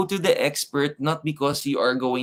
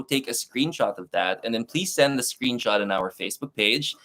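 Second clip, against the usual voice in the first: put-on English announcer accent. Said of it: "Okay na ba yung accent ko dun?".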